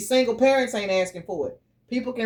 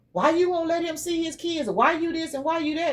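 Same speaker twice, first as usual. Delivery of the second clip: higher nagging imitation of gossips; mocking accusers; 7 semitones higher than usual. Mother retelling rumors about her, mock nagging voice.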